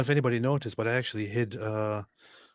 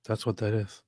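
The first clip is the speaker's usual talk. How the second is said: whisper; 4 dB quieter than usual. Acted. Teasing confirmation.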